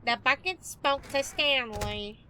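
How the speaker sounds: slow nasal narrator impression; nasally voice. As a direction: read it slow through the nose. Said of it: "I like the nasally voice".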